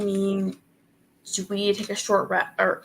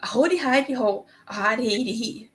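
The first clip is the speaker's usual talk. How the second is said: gibberish imitation. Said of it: "You just sound like".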